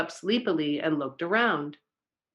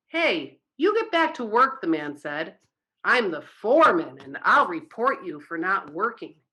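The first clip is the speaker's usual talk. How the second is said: foreman scolding; 3 dB louder than usual. Acted. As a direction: bark orders at the slacker. Foreman catches bear idling.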